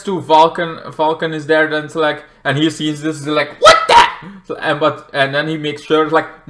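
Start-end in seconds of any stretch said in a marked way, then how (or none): 3.6-4.0 startled high-pitched exclamation; a retold hero's sudden surprise; shocked what the. Hero sees something shocking.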